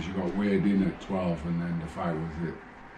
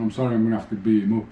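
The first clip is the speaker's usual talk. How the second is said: quick, slightly louder cocky boast; 2 semitones higher, 6 dB louder, much faster than usual. Retold or imitated. Boxer cheekily warns the opponent's family friend, cocky. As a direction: toss it off with a cheeky grin. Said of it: "No, you're cocky".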